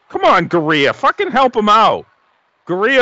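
high, frustrated shout; yelling at the screen. Real, not acted. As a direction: urge him on, exasperated.

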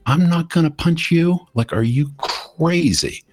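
high, astonished refusal; incredulous. Retold or imitated. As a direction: squeak it out in disbelief. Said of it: "And I'm like".

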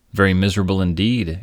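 mock exclamation. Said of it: "exclaimed the stranger".

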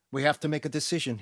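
fast, firm announcement; announcing. Acted. Garcia announcing to the gang, firm. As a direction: declare it to the group. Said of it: "he announced".

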